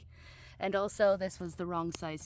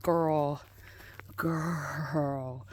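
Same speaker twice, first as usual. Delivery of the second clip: slow, drawn-out gushing over her garden; gushing to herself; 4 semitones lower, much slower than usual. Acted. Admiring the finished garden bed, slow and reverent. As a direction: talk to herself like a proud girlfriend. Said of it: "I'm like".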